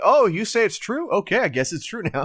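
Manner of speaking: high, breezy, easygoing, agreeable voice. Mocking how agreeable the judge is: imitating an agreeable judge. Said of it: "He's like".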